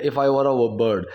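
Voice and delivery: very slow, word by word for learners; slow model reading. Shown as a demonstration. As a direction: spell it out slowly like a teacher. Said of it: "teacher models English sentence". (बहुत धीमे, शब्द-दर-शब्द पढ़ाते हुए)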